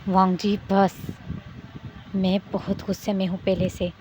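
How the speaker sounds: grit every word out, barely holding the anger; through clenched teeth. A narrator's reading. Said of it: "दांतों को जकड़ते हुए गुस्से में".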